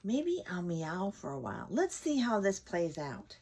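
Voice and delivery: lightly voiced bored housecat; idle cat thinking aloud. Cat with nothing to do, lightly voiced and bored.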